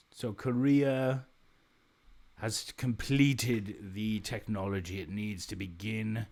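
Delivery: slow, mock British announcer reading; British accent. Gamer reading the game's news, British accent. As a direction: read it like a stately British bulletin. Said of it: "I do all these in a British accent".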